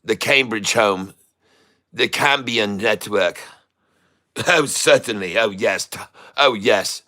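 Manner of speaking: hammed-up posh British English accent; mock British accent. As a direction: play a stuffy Englishman over tea, British accent. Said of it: "I do indeed try to replicate the voices of people from other places".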